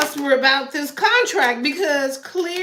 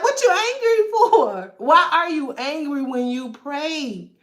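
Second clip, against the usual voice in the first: laughing. Retold or imitated. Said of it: "and you like".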